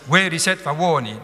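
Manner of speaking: "veriset favori" with first syllable of each pair stressed; shorter trochaic rhythm. Shown as a demonstration. Teacher isolates the verse's ending, scanned trochees. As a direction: beat "veriset favori" as long-short pairs. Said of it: "on est dans un rythme beaucoup plus court".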